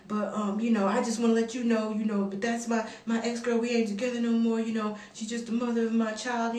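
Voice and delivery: lightly imitated hesitant man on the phone; halting mimicry full of filler sounds; doing the caller. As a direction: stall and stumble through an awkward phone explanation. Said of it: "this is what he was sounding like".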